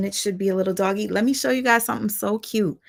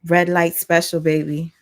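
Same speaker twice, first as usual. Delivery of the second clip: steamy tease; 2 semitones lower, 4 dB louder than usual. Pretend. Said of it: "I'ma do like this".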